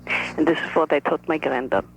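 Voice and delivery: a lightly voiced shy old Russian grandmother; other grandmother. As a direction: speak as the careful, reserved grandmother. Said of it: "This is the other grandmother speaking".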